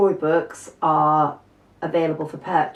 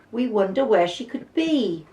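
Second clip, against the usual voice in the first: put-on worried children; 5 semitones higher than usual. Children voiced in story.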